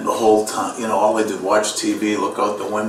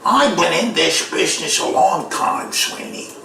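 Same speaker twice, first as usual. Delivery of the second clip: Peter Falk; 13 semitones higher than usual. Acted. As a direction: stretch the words out in a strained character voice. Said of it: "he says to me".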